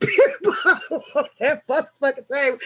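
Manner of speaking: quick, breaking into real laughter; laughing while telling. Real, not acted. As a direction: tell it through giggles. Cracking up retelling bottle slamming.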